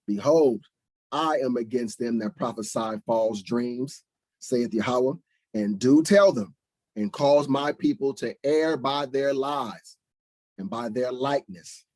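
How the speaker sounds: solemn preaching read; scripture reading. Acted. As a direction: read the prophecy like a sermon. Reads scripture aloud.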